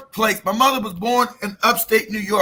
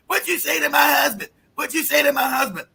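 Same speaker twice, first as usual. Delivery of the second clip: higher, fading mock yell; imitating yelling wife; 3 semitones higher than usual. Wife demanding answers on the phone, yelling. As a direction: keep yelling as the wife, winding down. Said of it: "She started yelling at me".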